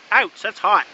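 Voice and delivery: sudden yelp of real pain; burnt fingertips. Real, not acted. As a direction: jerk back from a hot pan. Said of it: "I just touched the pan".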